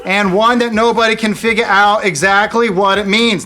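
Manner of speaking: drifting impression. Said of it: "Now it's J F K".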